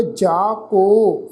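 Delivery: ਜਾ ਕੋ with a long, drawn-out "o"; "o" vowel on ਕੋ. Shown as a demonstration. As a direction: model ਕੋ slowly, holding a pure "o". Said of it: "ਹੋੜੇ ਦੀ ਮਾਤਰਾ ਲੱਗੀ ਹੈ".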